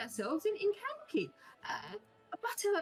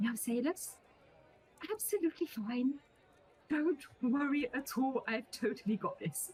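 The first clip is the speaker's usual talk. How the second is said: whispered character voice; 5 semitones lower than usual. Fenna whispers a message to Salus to reassure him, Fenna's whisper. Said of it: "message Salus as a whisper".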